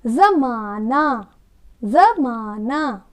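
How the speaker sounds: जमाना drawn out slowly with a z sound; जमाना slowly as zamaana; slow model reading. Shown as a demonstration. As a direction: stretch जमाना for the class. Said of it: "बोलिए".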